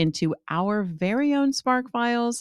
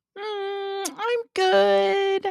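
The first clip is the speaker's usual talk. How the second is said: excited voice jumping up an octave, way up high. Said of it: "My voice is going up an octave".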